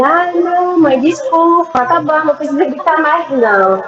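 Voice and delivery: a hint of a placating child; apologetic child. Retelling son's apology after scolding.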